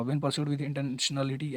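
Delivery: very slow, reading each word aloud deliberately. Shown as a demonstration. Teacher shows students the wrong way, slowly reading each word. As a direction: plod through every single word. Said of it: "ऐसे नहीं पढ़ना है".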